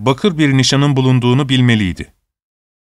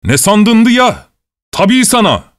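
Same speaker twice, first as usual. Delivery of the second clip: angry shout; 8 semitones higher, 3 dB louder, slower than usual. A narrator's reading. Guard keeps shouting at prisoner.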